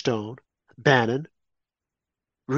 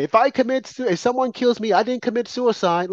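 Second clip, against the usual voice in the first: higher-pitched imitation of yelled protest; mild mock yell; 6 semitones higher than usual. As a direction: mimic a man calling out theatrically. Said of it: "he yelling out".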